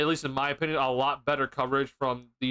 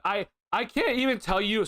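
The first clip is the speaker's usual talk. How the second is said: octave jump; 6 semitones higher than usual. Real, not acted. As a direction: voice cracking up high. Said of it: "sorry, my voice cracked".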